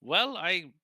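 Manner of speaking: exasperated outburst. Acted. Professor scolding the player for barging in, loud and high. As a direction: sputter it out, climbing to a squeak.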